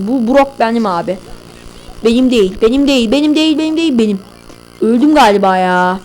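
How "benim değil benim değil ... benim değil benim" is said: rising insistence. Real, not acted. Repeats, rising each time.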